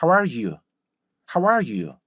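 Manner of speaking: "how are you" with short "how", falling; rhythmic gliding "how are you"; correct English rhythm. Shown as a demonstration. Teacher models what can now be said, correct "how are you". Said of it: "이렇게 되면은".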